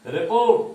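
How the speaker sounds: "रिपोर्ट" with पोर्ट high and loud; light रि, strong पोर्ट in "रिपोर्ट"; second-part stress. Shown as a demonstration. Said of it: "पोर्ट पर ज्यादा जोर है".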